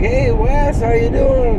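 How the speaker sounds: high, bright friendly hello; cheery greeting. Retold or imitated. Old family friend greets him, high cheery hello.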